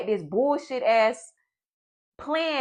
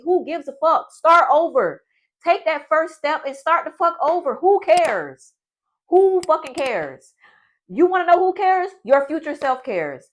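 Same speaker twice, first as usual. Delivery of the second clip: fired up; 5 semitones higher than usual. Real, not acted. Fired-up pep talk.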